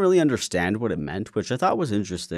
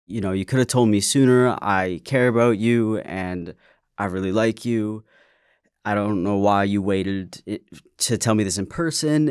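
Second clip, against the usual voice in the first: upset; 2 semitones higher, 6 dB louder than usual. Retold or imitated. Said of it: "she was upset at first".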